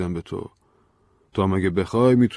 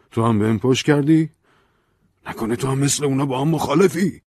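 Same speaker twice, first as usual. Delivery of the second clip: suspicious accusation; 8 semitones higher, 7 dB louder than usual. Acted. Ben accuses her.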